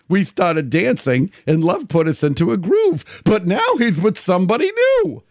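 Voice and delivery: lightly creepy clown, slow. Pretend. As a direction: recite lyrics as a creepy clown. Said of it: "in my creepy clown voice".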